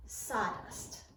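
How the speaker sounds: wry inner whisper; thinking aloud. A narrator's reading. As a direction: whisper it to himself. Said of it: "thought to himself".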